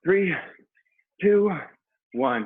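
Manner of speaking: loud, high countdown; coach countdown call. Real, not acted. Countdown at interval end.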